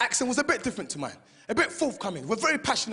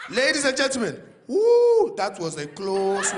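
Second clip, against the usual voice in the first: shaken pilot; 5 dB louder, slower than usual. Retold or imitated. Pilot after turbulence, relieved shaky announcement. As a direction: blow out relief on mic.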